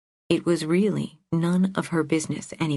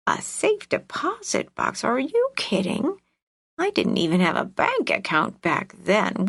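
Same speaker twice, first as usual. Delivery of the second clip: put-on old woman voice; 3 semitones higher than usual. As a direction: play a cranky old aunt. Narrator voices the old aunt.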